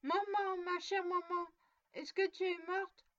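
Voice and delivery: put-on a frightened child crying for mother; desperate cry. A narrator's reading. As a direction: call out to mother in despair. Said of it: "avec l'accent du désespoir".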